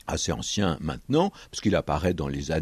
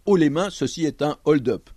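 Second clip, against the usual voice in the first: film bank robber; 7 semitones higher, 6 dB louder than usual. Acted. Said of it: "ils annoncent la couleur".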